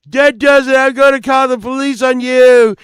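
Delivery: high, loud retold yell; outraged threat. Rock star threatening to call police, outraged yell. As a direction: act out someone at the end of his patience.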